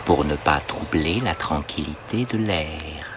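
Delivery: talking while holding breath. Acted. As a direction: speak with the breath held in. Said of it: "Je parle en retenant mon souffle".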